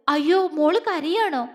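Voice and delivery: lightly acted alarm and concern; concerned, startled question; worried. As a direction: ask anxiously after a crying child. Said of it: "ആകുലതയോടെ".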